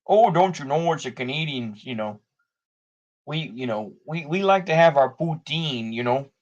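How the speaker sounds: put-on Canadian-Minnesotan accent. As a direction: lightly caricature a Minnesotan-sounding Canadian accent. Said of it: "that's more of a Minnesotan accent".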